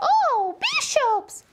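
high, delighted discovery; excited. Acted. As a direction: act thrilled for a child.

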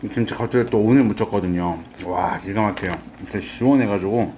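chewing kimchi while talking; talking between bites; mouth full. Real, not acted. Seen 2: Right speaker ate kimchi just before; mouth full, lifts more.

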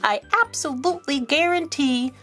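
slick salesman. Acted. Rabbit's salesman pitch in rhyme.

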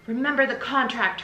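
mother warning her daughter, shouting. Acted. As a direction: shout the reminder up the stairs. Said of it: "her mother shouted".

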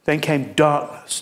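a broken man crying for help; lament. Acted. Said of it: "can you hear his lament?".

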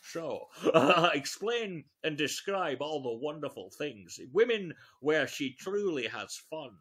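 low, smooth Scottish impression; Sean Connery. Comic reads the seduction guide to her, suave Scottish impression. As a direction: put on a deep, suave Scottish burr. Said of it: "in a Sean Connery voice going".

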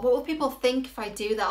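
mock anxious self-questioning; acted self-doubt. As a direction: act out the worried inner critic. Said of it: "here's what it sounds like".

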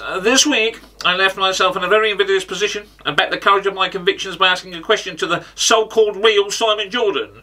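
pundit impression with measured, self-important phrasing; Simon Jordan. Comic introducing his question to the real pundit, impersonating him. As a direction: do a wordy, put-on football pundit. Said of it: "this Darren Farley impression".

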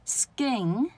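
skin slowly as "sgin"; skin, stretched, no puff; unaspirated k. Shown as a demonstration. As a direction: model skin with a g-like k. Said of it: "再念一下啊".

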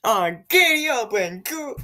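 whooping cowboy holler, then easing off; hammed-up cowboy cheer; mock cowboy. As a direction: give a big rodeo yee-haw. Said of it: "If I pick the cowboy hat, it'll be like".

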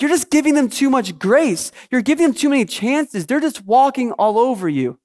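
mildly exasperated retold complaint; upset. Husband telling his wife she gives too much grace, mildly upset. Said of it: "I'm upset with her".

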